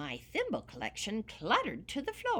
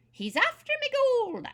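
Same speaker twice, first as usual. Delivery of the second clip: much higher, louder panicked cry; alarmed cry; 8 dB louder than usual. Acted. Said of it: "I cried".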